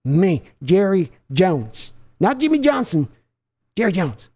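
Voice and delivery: a hint of a gloating owner, claiming credit; boastful owner. Father claiming credit for the draft pick, gloating brag. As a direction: savor his own name like a trophy.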